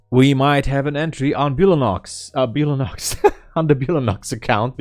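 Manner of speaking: excited trader spotting an entry. Real, not acted. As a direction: burst out at the new trade.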